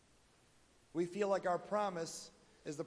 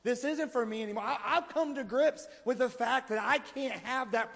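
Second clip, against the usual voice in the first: loud, half-laughing protest with a higher pitch; mock angry refusal; 4 semitones higher, 3 dB louder than usual. Believer snapping back at God's reminder, mock angry. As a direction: push the reminder away with a laughing huff. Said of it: "we get angry and say".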